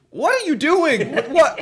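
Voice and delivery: very high-pitched, bewildered, dumbfounded "what". Retelling their own confused reaction to what someone was doing, mock dumbfounded confusion. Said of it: "a dumbfounded kind of a".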